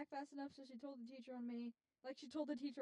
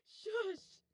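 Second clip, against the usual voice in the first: loud, raised-pitch mock shush; sharp shushing; 7 semitones higher, 7 dB louder than usual. Retelling hushing Chance's screaming, loud exasperated shush. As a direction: shush a screaming friend, retold.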